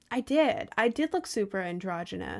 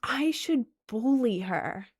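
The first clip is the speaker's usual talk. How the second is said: mock bullies; 5 semitones higher than usual. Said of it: "they're like".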